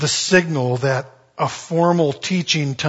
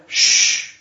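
urgent hush; whispered shush; whispered shh; 4 dB louder than usual. Retold or imitated. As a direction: hush the crowd. Followers hushing before teaching.

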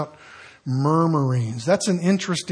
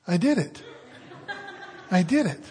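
put-on proud child; 2 semitones higher, 6 dB quieter than usual. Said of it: "then she was like".

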